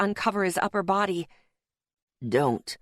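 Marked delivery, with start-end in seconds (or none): 2.3-2.8 very low pained groan. A narrator's reading. Injured Louis groaning to his rescuers, deep pained groan. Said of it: "he groaned".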